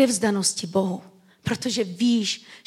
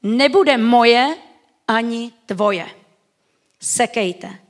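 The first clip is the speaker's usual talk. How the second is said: cold spite; 5 dB louder, much slower than usual. Retold or imitated. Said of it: "Ta druhá ale řekla".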